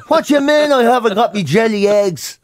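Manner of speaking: lightly hammed-up indignant prisoner; mock outrage. Hardened prisoner missing his jelly eggs, mock outrage. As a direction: play at being affronted over sweets.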